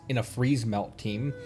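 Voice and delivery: normal talking voice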